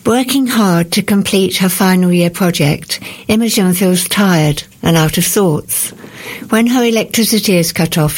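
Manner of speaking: measured read-aloud with deliberate pauses; book blurb reading. Acted. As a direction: read the blurb evenly, pausing between phrases.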